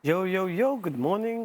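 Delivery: talking through a swollen mouth; words thick from a swollen lip. Real, not acted. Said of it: "My mouth is swollen".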